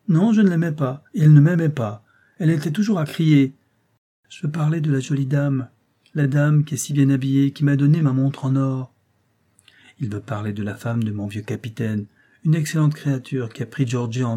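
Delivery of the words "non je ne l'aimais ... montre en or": put-on higher, louder child complaining; a small boy pressing his point; insistent little boy. Child George talks.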